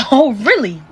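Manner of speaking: laughing oh really, knowing; sarcastic laugh catching the lie; laughing sarcasm. Retold or imitated. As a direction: laugh it off like you caught her. Catches the missing money match.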